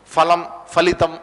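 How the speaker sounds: "ఫలం, ఫలితం" starting with an f sound; slow word-by-word "ఫలం, ఫలితం" with f; everyday Telugu f. Shown as a demonstration. Teacher gives everyday Telugu examples, f in "ఫలం, ఫలితం". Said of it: "తెలుగులో చదివేటప్పుడు ఎలా చదువుతాం".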